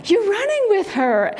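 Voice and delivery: high, lilting imitation of a dad; dad to toddler. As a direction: playfully voice a dad talking to his little boy. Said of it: "his dad's behind him trying to keep up".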